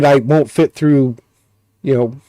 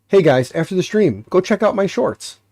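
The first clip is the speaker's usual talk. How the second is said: upbeat presenter plug, higher pitch; YouTuber promo voice; 5 semitones higher than usual. Shown as a demonstration. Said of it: "hold on".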